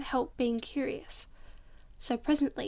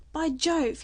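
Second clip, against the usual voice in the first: surprised exclamation; 4 semitones higher, 6 dB louder than usual. Acted. Man startled spotting kangaroo.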